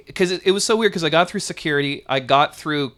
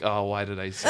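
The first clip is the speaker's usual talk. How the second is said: laughing at himself; 6 semitones lower, 7 dB quieter than usual. Retold or imitated. Retelling his blunder to the TSA guy, laughing. Regretting a dumb answer to TSA.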